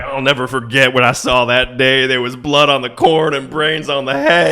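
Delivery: imitated country balladeer, rising in intensity; dark, poetic country singer send-up; a famous country singer. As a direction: play a mock-tragic country storyteller. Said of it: "sounds exactly like a famous country singer".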